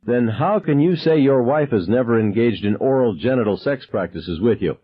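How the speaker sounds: corner him with every word; menacing interrogator. Acted. Gunman interrogating his teacher.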